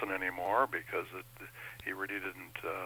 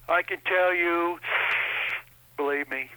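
Donald Trump impression; 8 semitones higher, 4 dB louder than usual. Comedian tries out his unfinished Trump for the interviewer, Trump impression. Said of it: "Do you have a Donald Trump impression".

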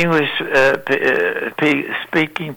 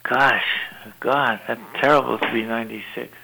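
whispered; 4 semitones lower, 7 dB quieter than usual. Real, not acted. Whispered lament about age.

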